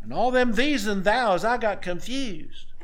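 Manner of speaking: high-pitched hammed-up excuse, dragging at the end; mock excuse-making. Believer explaining unread Bible to Christ, mock excuse-making. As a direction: play the confused, self-excusing believer. Acted excuse at the judgment seat.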